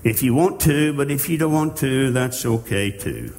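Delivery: mock-timid, noncommittal offer; wishy-washy suggestion. Preacher mocking a God who only suggests, half-hearted. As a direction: shrug it off like a limp suggestion. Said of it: "God is not saying".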